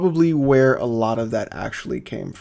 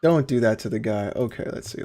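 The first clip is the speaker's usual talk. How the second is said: exhausted parent; 2 semitones lower, 5 dB quieter than usual. Real, not acted. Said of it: "that tired dad voice right now".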